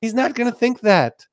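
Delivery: high-pitched, insistent denial; exasperated rebuttal. Acted. Host answers worried parent about son, high exasperated voice. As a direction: knock the worry down in a high voice.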